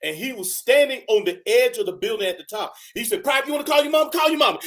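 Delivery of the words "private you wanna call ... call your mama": higher shout on the rooftop; drill sergeant shout. Retold or imitated. Drill sergeant orders the private to shout from the roof. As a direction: order him to yell.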